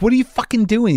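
high-pitched exasperated demand; replaying the row, pitch way up; retold angry confrontation. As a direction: act out an incredulous challenge. Acted hallway quarrel.

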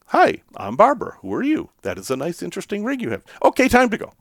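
mock French-accented order; bossy French accent. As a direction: imitate a pushy French woman rounding you up. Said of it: "she did the same thing".

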